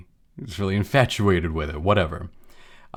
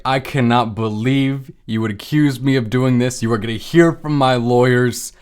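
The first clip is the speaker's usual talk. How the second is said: angry; 3 semitones higher than usual. Retold or imitated. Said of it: "gets all angry".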